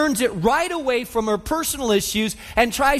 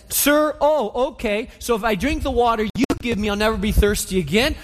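sarcastic reply. Retold or imitated. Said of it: "There's sarcasm in, in her tone".

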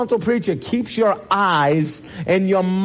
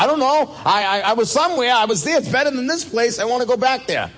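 a stammering man who cannot explain heaven; raised, rushed and giddy Lazarus; flustered Lazarus; 6 semitones higher, faster than usual. Retold or imitated. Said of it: "He's like".

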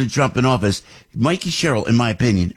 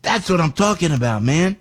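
retold cheer; 5 semitones higher than usual. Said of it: "I went".

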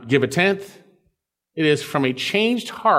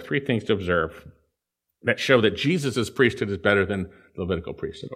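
ordinary talk

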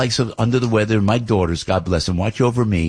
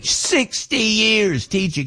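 Sixty years teaching much higher and slow, in awe; amazed emphasis; 13 semitones higher, much slower than usual. Shown as a demonstration. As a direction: marvel at it, drawn out and high.

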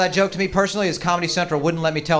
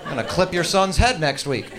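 higher, slower trash-talking table voice; tough-guy coffee table; 6 semitones higher, slower than usual. Retold or imitated. The coffee table talking back to him, high tough-guy taunting. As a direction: talk back like a street tough. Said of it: "Think the coffee table's ever like".

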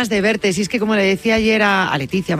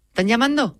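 usual speaking voice

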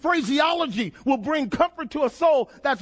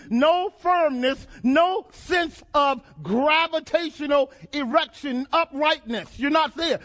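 raised, driving sermon cadence; impassioned preaching; 3 semitones higher than usual. Real, not acted. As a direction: pile up the phrases with mounting emphasis. Preacher builds picture of tumbling helplessly.

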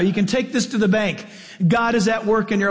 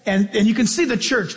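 usual speaking voice

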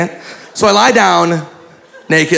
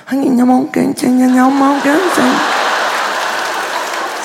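higher-pitched imitation Chinese gibberish; mock whispered Chinese; 8 semitones higher than usual. Imitating masseuse at the client's ear, mock Chinese murmur. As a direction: murmur made-up syllables in a raised voice. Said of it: "she would whisper into my ear".

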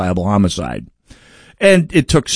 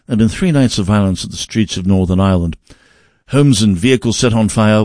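mock BBC newsreader accent, a bit quicker. Podcaster reads the BBC report aloud in a BBC accent. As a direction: read it like a BBC news anchor in a BBC accent. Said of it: "That's my B B C accent".

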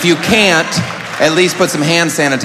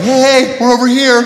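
high-pitched call, waving someone over; 9 semitones higher than usual. Acted. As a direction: call out brightly to get noticed. Orphanage calling out to people.

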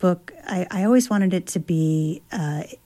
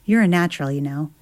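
smiling voice; faster than usual. Acted. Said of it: "I could hear the smile in his voice".

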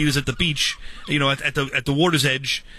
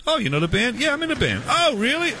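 excited chat; 10 semitones higher than usual. Retold or imitated. Suzanne and narrator chatting excitedly.

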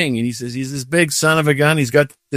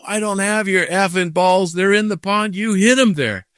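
mustered courage; 6 semitones higher than usual. Retold or imitated. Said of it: "I muster up the courage".

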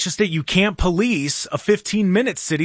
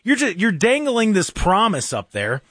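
scolding rant; 5 semitones higher than usual. Real, not acted. Scolding the mayor on air.

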